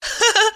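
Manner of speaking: light high woman's laugh. A narrator's reading. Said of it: "Айлен вдруг рассмеялась".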